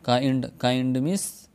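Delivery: काइंड with a stretched आई; English word kind. Shown as a demonstration. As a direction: drag the आई in काइंड. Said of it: "यानी खींच कर पढ़ा जाता है". (काइंड, आई खींच कर)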